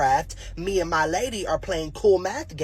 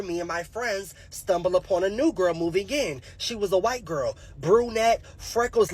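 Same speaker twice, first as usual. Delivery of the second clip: ordinary talk, nothing marked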